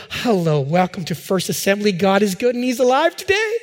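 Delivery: lightly acted sweet phone greeting, lifting at the end; angelic receptionist. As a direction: imitate a comforting, heaven-sent church receptionist. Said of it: "comforting voice".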